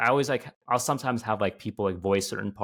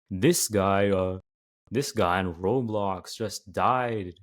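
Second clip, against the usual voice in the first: slow monotone video-essay narration, lightly imitated; monotone Nexpo narrator voice; much slower than usual. Shown as a demonstration. YouTuber demonstrating his subconscious narration habit, slow monotone. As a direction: draw it out in a mock-serious narrator monotone. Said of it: "like, the monotone, like, Nexpo, Blame It on Jorge voice".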